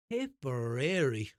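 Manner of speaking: Tipperary drawn out slowly, stressed; slow emphatic place name. Retold or imitated. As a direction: linger on Tipperary. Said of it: "emphasized on the Tipperary part".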